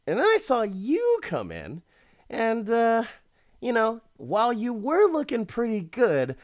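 a lightly hammed-up sleazy villain bragging; smug rich creep. Retelling the stalker's blackmail pitch in a high smug voice. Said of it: "And he's like".

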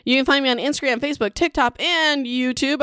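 sing-song social media plug, slowing on "YouTube"; odd list delivery. Real, not acted. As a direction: stretch out "YouTube" at the end of the list. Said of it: "I don't know why I said it like that".

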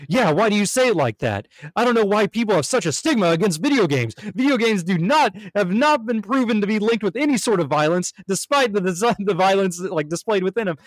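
lightly voiced ranting girlfriend; defensive rant. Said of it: "And she's like".

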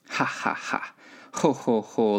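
mock laughter read out for two pigs; storybook "ha ha ha", then "ho ho ho"; pigs' laugh. A narrator's reading. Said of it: "laughed the two little pigs again".

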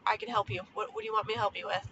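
apologetic mom. Retold or imitated. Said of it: "I say it like that".

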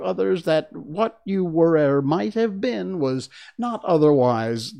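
put-on rambling, moralising old duchess; frail withering duchess.

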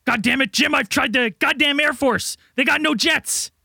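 lightly voiced frantic government official, exasperated; barking orders at Jim in a lightly played crisis voice; harried official. Frazzled agency chief pleading with Jim for help, lightly hammed. Improvised sketch, official character.

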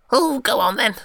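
high squeaky fairy voice; tiny tinkling fairy voice. Acted. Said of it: "little fairy".

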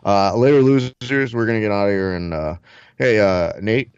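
loose fighter-bro impression; Diaz brothers. Brothers signing off and mixing each other up, stoner impression. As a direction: play two muddled stoner brothers. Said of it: "it's almost like we're brothers".

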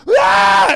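loud, high yelp of panic; acted yell of alarm. Dad reacting to the opening shot, acted alarmed yell. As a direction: yell out as if caught off guard. Acts out panicked covering of eyes.

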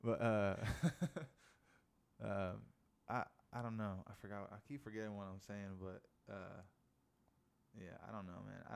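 high, laughing and losing the thread; talking while stoned. Real, not acted. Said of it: "You high as fuck, Johnny".

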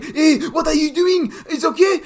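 a hammed-up mother calming a child; mum comforting. Retelling how mum calmed him down, in a high mock-soothing voice. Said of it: "she's like".

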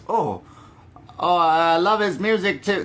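mock posh Brit, barely put on; bad Nigel impression. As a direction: lightly put on Nigel, gushing over the music. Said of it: "That's not a good Nigel".

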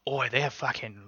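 hammed-up British "Oi"; mock British accent. Voicing our British listeners, mock British accent. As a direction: grumble like an offended Brit, badly faked. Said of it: "our British listeners, like".

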